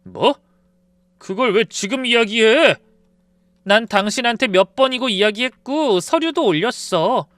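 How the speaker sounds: cold fury on the phone; angry. Retold or imitated. Wife snaps at husband on phone.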